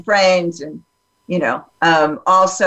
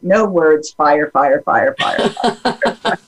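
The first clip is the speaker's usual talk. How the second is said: swooning fire reaction; 4 semitones lower, slower than usual. Retold or imitated. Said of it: "And I just was like".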